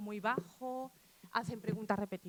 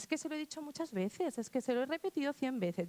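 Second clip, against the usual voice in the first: a touch exasperated, higher; exasperated teacher; 5 semitones higher than usual. Retold or imitated. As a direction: mimic a fed-up teacher defending herself. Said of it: "Tú dices".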